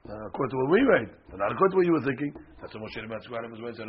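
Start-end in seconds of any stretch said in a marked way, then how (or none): 0.1-2.3 louder mock protest to Moses; protesting people. The people argue back at Moses, loud mock protest. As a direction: whine that you swore by your own meaning. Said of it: "people to come along and say".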